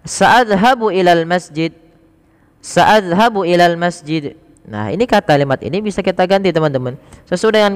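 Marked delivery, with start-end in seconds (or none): 0.0-4.4 slow model sentence. Shown as a demonstration. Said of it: "maka kita katakan".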